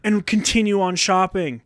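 a touch of anger in a retold complaint; mad. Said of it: "I was so mad".

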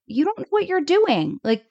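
high, alarmed protest; mock panic. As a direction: play the frantic worrier. Kathy panicking, quote introduced.

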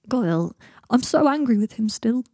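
acted hurt, pushed and slow; starting to cry. A narrator's reading. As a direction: drag the words out as tears begin. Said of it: "said Goyle, starting to cry".

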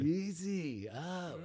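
slow Maine caution called to a friend; Maine accent. Shown as a demonstration. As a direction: stretch "Easy up" out like a boatyard local. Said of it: "for the main accent".

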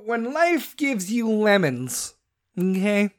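drawn-out put-on voice, slow; a goofy sing-song aside; odd put-on voice. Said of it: "I don't know why that came out".

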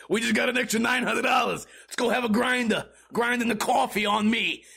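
put-on broad comic New Jersey accent, laughing along. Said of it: "California cops sound like New Jersey".

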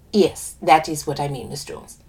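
put-on lilting West Indian accent. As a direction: speak with a light West Indian lilt. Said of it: "I do an accent for one of the characters".

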